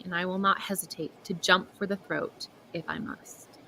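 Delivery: hushed, menacing whisper; fierce whisper. A narrator's reading. Fawn vowing to defend her companion, whispered menace. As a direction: breathe the threat out low and unvoiced. Menacing last line of the vow.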